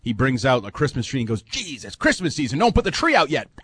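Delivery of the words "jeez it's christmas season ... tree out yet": mild mock yell, pitched up; half-hearted imitation of a screamed complaint; retold scream. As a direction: imitate an exasperated shouter without really shouting. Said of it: "And he just screams".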